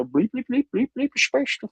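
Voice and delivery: robotic alien beeps rising high; alien bleeps. Pretend. Joking about an alien cast, robotic beeps. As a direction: beep like a space alien. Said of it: "make her an alien".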